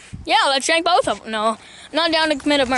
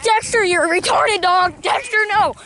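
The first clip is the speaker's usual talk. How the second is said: stern, higher call to the dog; scolding a dog; 4 semitones higher than usual. Real, not acted. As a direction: warn the dog off.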